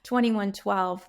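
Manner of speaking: "twenty-one twelve" slowed, each number said distinctly; careful repeat. Real, not acted. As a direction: repeat the reference slowly to get it right. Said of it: "I wanna make sure I got that right".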